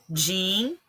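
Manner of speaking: din held out on its own; stressed syllable isolated. Shown as a demonstration. Teacher picking out the tonic syllable for students, din held. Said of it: "é a sílaba tônica".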